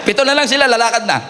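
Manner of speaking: laughing as he repeats the joke; laughing tease. Real, not acted. Pastor joking to the congregation, laughing. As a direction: chuckle through the teasing line.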